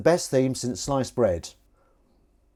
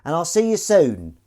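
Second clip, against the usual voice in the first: cat voice; 4 semitones higher, 7 dB louder than usual. Acted. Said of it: "I'm speaking in the cat voice".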